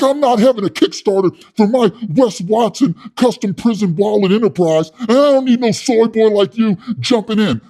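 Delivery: high, loud, puffed-up yelling; loud hothead Wes. Retold or imitated. Wes scolding his soy boy cellmate, loud and high. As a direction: rant like a tough guy with something to prove.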